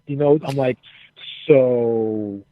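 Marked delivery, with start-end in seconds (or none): 1.5-2.4 slow, drawn-out servile offer, rising in pitch; mock eager-to-please pledge. Wrestler courts the veterans' favor, slow mock-servile offer. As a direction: stretch it out like a fawning pledge. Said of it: "My man out here pledging".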